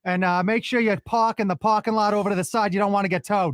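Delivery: put-on lightly done Boston accent as Mark Wahlberg. Host asks for a Boston accent impression, lightly done Boston accent. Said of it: "Give me your best Mark Wahlberg with a Boston accent".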